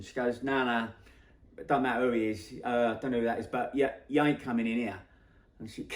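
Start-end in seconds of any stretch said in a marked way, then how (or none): 0.4-5.0 louder, brusque mock refusal; firm refusal. Kiosk woman refusing a musician entry, firm and louder. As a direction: act out turning someone away, insistent.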